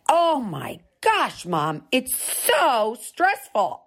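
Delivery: high, slow, whiny daughter; mock stressed daughter. Daughter flying home for Christmas, whiny and high.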